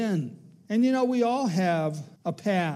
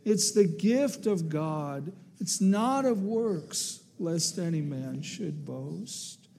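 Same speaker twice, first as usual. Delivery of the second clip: recited together with congregation. Acted. Pastor leading the congregation in reading scripture aloud, steady recitation. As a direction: lead the church in reciting the verse. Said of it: "Let's say it together".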